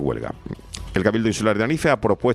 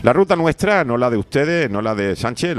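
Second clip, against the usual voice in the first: indignant emphasis; 4 semitones higher, 5 dB louder than usual. Real, not acted. Presenter stresses Canary route is ours.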